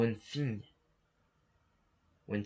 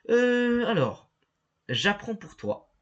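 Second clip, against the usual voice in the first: mock assistant voice; 10 semitones higher, 7 dB louder, slower than usual. Voicing the game assistant.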